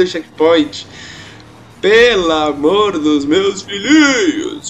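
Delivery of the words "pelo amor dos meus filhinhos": slow drawn-out sports-announcer catchphrase, lightly done; Silvio Luiz catchphrase. Retold or imitated. Streamer quoting the announcer Silvio Luiz mid-race, slow mock narration. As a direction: stretch it out like a TV football narrator. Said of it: "como diria o Silvio Luiz".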